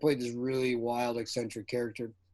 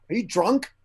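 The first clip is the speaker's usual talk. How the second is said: accusing question; 6 semitones higher, 5 dB louder than usual. Retold or imitated. Director questions the actor.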